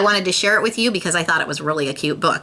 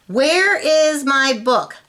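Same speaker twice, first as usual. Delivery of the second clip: slow reread; 8 semitones higher, 3 dB louder, slower than usual. A narrator's reading. Rereading with sound effects.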